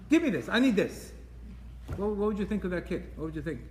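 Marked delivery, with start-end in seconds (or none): 0.1-1.1 put-on higher, pushy child voice; demanding kid. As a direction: whine it like a spoiled kid. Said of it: "Imagine a kid tells you".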